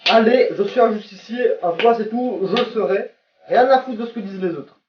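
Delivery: mock the smug justice-seeker; mock self-righteous hero. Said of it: "trop en mode".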